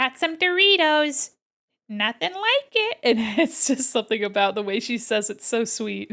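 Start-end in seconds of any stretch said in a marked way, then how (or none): 0.0-3.0 high, nasally little voice. Describing a TikToker, imitating her in a very nasally little voice. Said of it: "she has like a very nasally little voice and she's like".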